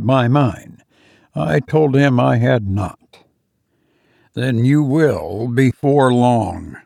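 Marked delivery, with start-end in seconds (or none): 4.3-6.8 slow, grave warning. Acted. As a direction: say it slowly, like a grave omen. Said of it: "he said gravely".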